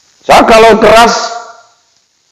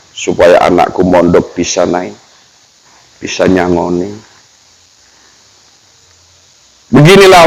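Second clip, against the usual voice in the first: father's humble reply; 4 semitones lower than usual. Acted. Father answers child's question.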